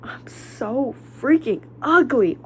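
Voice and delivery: slow, whispered self-pity. Real, not acted. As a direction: drag it out under your breath. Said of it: "I was like".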